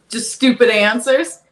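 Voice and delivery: words spilling through laughter; laughing. Real, not acted. Host laughing at her own punchline about stupid answers. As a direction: let the laugh break through the joke.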